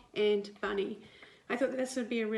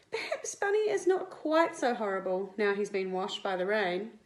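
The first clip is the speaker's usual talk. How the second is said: lively picture-book read-aloud; reading to children; 3 dB louder than usual. A narrator's reading. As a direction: read it like storytime for little kids. Teacher reads picture book to class.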